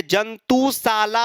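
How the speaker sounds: जंतुशाला said very slowly, stretching the final आ; drawn-out pronunciation. Shown as a demonstration. Teacher shows students जंतुशाला ends in a long आ. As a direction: draw out जंतुशाला so its long आ rings. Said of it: "उच्चारण करके ही देख लीजिए".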